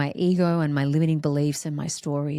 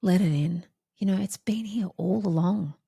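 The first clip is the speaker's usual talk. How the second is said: gentle coaxing voice; 2 semitones higher than usual. Retold or imitated. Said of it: "surrender just said".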